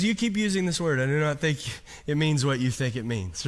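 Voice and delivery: put-on a light, understated Spanish accent on "You keep using this word"; a hint of Inigo Montoya's Spanish accent. Preacher imitating a movie swordsman, light Spanish accent. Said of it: "You like my accent in that".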